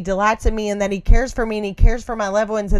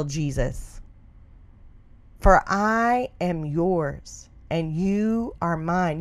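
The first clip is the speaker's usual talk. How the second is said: prayer of surrender. Acted.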